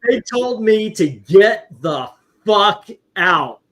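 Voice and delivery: laughing. Real, not acted. Laughing while telling hosts he got thrown out. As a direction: squeeze the words through helpless laughter.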